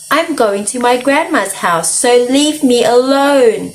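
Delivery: high, mild yell, drawn out at the end; storybook yell. Acted. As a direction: yell it lightly, stretching the last words. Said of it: "she yelled".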